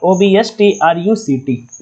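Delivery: letters dictated slowly and evenly; slow spelling out. Shown as a demonstration. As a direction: spell it out slowly while writing. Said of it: "तो यहाँ पे लिख देता हूँ obstruct". (धीरे-धीरे spelling बताना)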